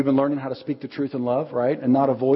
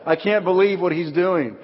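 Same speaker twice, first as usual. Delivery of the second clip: embarrassed laughing; 3 semitones higher, 4 dB louder than usual. Retold or imitated. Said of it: "And she was like".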